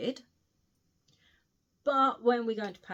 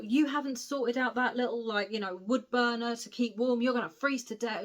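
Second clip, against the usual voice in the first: mild arsey scolding; 3 semitones higher, 3 dB louder than usual. Retold or imitated. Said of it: "he's getting really arsey with her".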